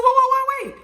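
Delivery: high, loud burst of alarm; shouted retold panic; frantic interruption. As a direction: cut them off urgently. Retold frantic plea on phone.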